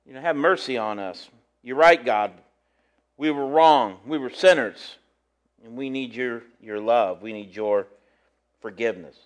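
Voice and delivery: quiet, understated begging for mercy; preacher voicing Isaiah's prayer of repentance; Isaiah pleading. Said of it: "And here's Isaiah".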